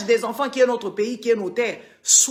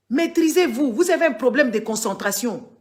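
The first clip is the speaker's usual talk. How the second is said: stern scolding; 4 semitones higher than usual. Real, not acted. Scolding distracted chat viewers.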